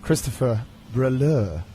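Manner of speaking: slow, lightly put-on French accent. Shown as a demonstration. Host introducing his guest in his best French accent. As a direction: say the name slowly with a touch of French. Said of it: "in my best French accent".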